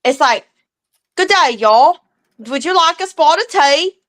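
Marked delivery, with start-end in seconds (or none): 1.2-4.0 a lightly faked British accent mixed with Southern y'all; bad British accent. Mom attempting a European accent for the kids, lightly faked British. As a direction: do a terrible posh English voice. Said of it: "my European accent".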